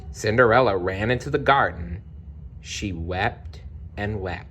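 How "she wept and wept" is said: softer, slow sorrowful telling; sad narration. A narrator's reading. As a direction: let the sadness slow it down. Narrating Cinderella's tears.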